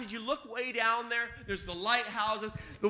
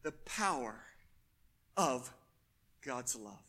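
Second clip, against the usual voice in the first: much lower and softer, almost to himself; hushed repeat; 11 semitones lower, 10 dB quieter than usual. Acted. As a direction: pull it down to a hush. Same phrase repeated softly.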